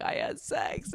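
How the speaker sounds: high breathy squeal of a giddy islander; high whispered girly gossip; gossipy girl. Retold or imitated. Imitating excited islanders.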